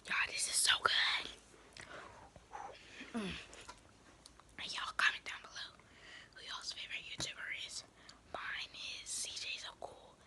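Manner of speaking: ASMR eating whisper. Real, not acted. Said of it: "back to whispering".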